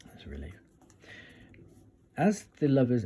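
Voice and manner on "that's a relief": hushed, relieved whisper; whispered aside. Real, not acted. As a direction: breathe it out under your breath. Relieved aside after checking card.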